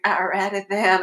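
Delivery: light mock Texas accent; lightly voiced Texan. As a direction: imitate a TSA agent with a hint of Texan. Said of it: "gave this Detroit T S A person a Texas accent".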